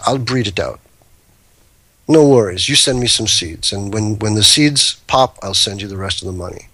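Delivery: lightly attempted Dutch accent; terrible Dutch accent. Breeder reassuring the seller about seeds, in a terrible Dutch accent. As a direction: retell it in a half-hearted, badly faked Dutch accent. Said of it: "in my terrible Dutch accent".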